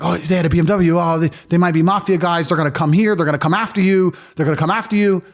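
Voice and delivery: mock alarm, rushing the warnings; panicking receptionist. Receptionist warning the brothers about mafia, mildly panicked. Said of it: "the hotel receptionist started to panic".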